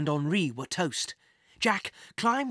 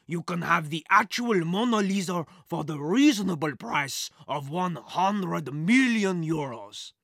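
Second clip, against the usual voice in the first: smooth crook voice; 4 dB louder than usual. A narrator's reading. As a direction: close a shady deal. Crooked boss selling on phone.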